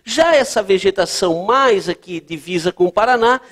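ordinary talk

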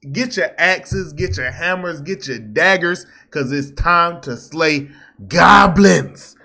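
rally the viewers like a battle cry; hyped channel intro building to a big finish; hype call to arms. Real, not acted.

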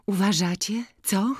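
put-on high, half-whispered girlish question; coy young village girl. To old Boryna, showing off the coral beads, half-whispered. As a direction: tease the old man, fishing for praise.

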